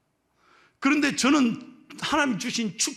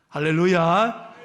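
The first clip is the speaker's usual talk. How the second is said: 1 hallelujah call; 5 dB louder, slower than usual. Real, not acted. Preacher's exclamation.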